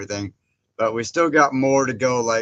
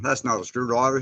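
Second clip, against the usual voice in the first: put-on Australian accent. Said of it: "I did the accent pretty good".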